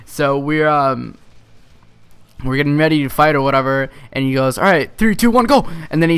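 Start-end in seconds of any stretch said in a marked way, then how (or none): 4.6-5.7 excited countdown. Retold or imitated. Kid counting down fight.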